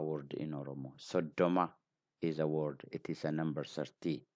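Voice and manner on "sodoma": Sodoma with the d held and doubled; double d. Shown as a demonstration. Teacher naming the real word for learners, doubled d. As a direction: stop on the d of Sodoma before releasing. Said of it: "da double".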